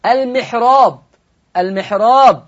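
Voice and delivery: المحراب with a light, thin ra. Shown as a demonstration. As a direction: say المحراب with the ra softened. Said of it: "الراء مرققة لورش".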